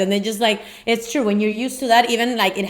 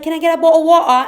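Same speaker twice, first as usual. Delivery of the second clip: put-on high, fast, loud kid voice; 8 semitones higher, 6 dB louder, faster than usual. Little kids ordering water, high fast loud child voice. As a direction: bounce it out like an eager child. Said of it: "the little kids were like".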